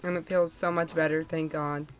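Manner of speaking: talking with a numbed mouth. Real, not acted. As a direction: speak through a numb mouth. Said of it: "my mouth is numb".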